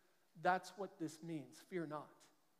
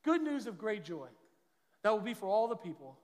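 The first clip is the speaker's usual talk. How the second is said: scripture reading. Acted. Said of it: "this is what the angel said".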